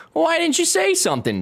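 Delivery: high, laughing question; laughing disbelief. Real, not acted. Laughing, incredulous to viewer.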